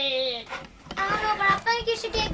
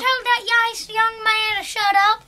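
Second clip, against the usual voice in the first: angry scolding; 4 dB louder than usual. Pretend. Grandpa scolding, pretend play.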